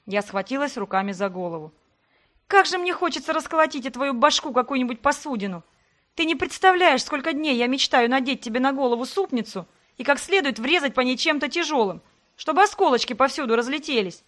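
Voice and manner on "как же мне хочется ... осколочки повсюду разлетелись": higher, heated fantasy of violence; exasperated rage. Acted. Heroine fumes at Sebastian about smashing dishes. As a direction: rage at him, half laughing at the image.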